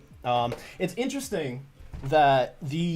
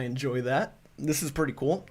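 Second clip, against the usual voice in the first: hiccuping; 2 semitones higher than usual. Real, not acted. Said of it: "I'm hiccuping like crazy now".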